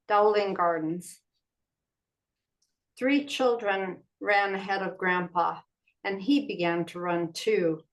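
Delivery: measured poem reading with pauses between phrases; unhurried recital of a poem. Acted. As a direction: read a poem aloud, pausing after each phrase. Reads own poem aloud.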